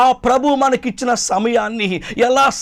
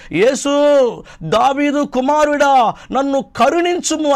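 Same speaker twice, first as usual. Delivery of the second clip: mock beggar's plea called out higher; crying out; 4 semitones higher than usual. Preacher voicing the blind beggar crying out to Jesus, pleading. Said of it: "వాడు గట్టి గట్టిగా అరుస్తున్నాడు".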